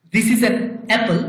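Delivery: slow, careful teacher model of the sentence; slow and deliberate like reading to a class. Shown as a demonstration. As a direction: spell it out slowly for learners.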